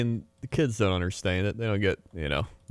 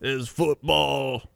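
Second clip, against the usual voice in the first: higher, drawn-out mock British; British guy; 5 semitones higher than usual. British guy correcting New York guy, hammed-up accent. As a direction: insist in cartoon British. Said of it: "your British guy".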